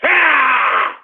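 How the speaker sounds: hollered yeah, cheering himself on; ranting yell. Real, not acted. Host hollering to his listeners, whooping yell. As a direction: whoop it up like a riled radio host.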